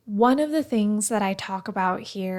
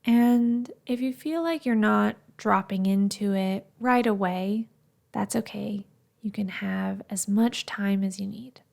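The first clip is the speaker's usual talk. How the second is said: guided meditation. Acted. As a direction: ease them gently through the breath check. Leads a breathing meditation.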